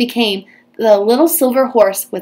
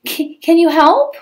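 sobbing; 7 semitones higher than usual. A narrator's reading. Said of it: "sobbed Cindy Ellen".

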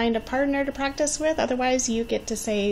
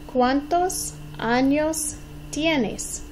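very slow, careful "¿Cuántos años tienes?"; slow model question; 2 semitones higher, much slower than usual. Shown as a demonstration. Teacher models the full question for learners, very slow. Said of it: "so we put it together".

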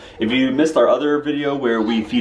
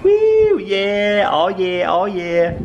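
excited cheer; 7 semitones higher, much slower than usual. Real, not acted. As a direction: celebrate going out.

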